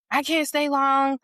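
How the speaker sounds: acted insistence. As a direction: imitate someone insisting on a turn. Acted demand to hold baby.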